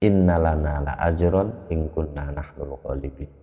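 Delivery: INNALANA LA AJRON IN KUNNA NAHNUL GHALIBIN read level as a statement; no question intonation. Shown as a demonstration. Teacher showing the verse cannot sound like a question, without intonation. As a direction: recite it without any questioning tune. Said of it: "Itu kalau tidak ada intonasinya, nggak bisa disebut bertanya".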